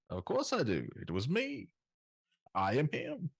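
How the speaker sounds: muffled voice through a hand; hand over mouth. Pretend. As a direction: speak through a covered mouth. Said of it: "That sounds more like Bane".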